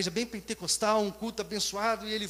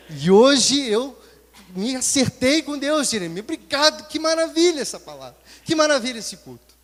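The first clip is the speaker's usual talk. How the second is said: overjoyed testimony; 7 dB louder than usual. Retold or imitated. Friend telling Jeremias he got right with God, exultant. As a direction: gush gratefully.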